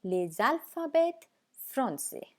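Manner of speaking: les alphabets français spoken slowly with French sounds; French pronunciation demo. Shown as a demonstration. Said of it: "आइए देखते हैं".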